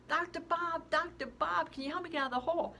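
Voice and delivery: high loud call, then rushed plea. Acted. Girl in the hole calls up to her doctor, high and loud. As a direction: shout up to the doctor for help.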